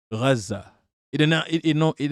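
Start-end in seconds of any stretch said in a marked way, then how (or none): 0.1-0.7 Gaza with a throaty opening sound; deliberate pronunciation. Shown as a demonstration. Streamer annoying people with his Gaza, deliberate pronunciation. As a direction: say Gaza with a guttural first consonant. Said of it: "I just pronounce it that way".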